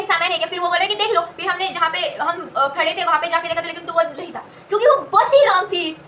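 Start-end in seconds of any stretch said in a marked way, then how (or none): 4.7-6.0 laughing while saying it; real laugh breaking through the words. Real, not acted. Realizing it was the wrong bus, laughing. Laughing at her own mistake.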